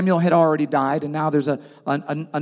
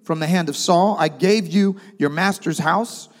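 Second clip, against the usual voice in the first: prophet's rebuke; 3 semitones higher than usual. Retold or imitated. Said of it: "He says".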